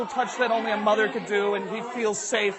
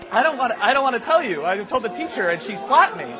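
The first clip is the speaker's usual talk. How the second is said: higher, mildly distressed pleading; reluctant child; 4 semitones higher than usual. Acted. Kid refuses the principal, mildly upset. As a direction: plead not to have to say it.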